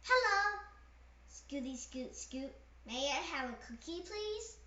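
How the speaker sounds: be the tiny well-mannered duckling; sweet duckling. Acted. Duckling politely asking the pigeon, lightly voiced and sweet.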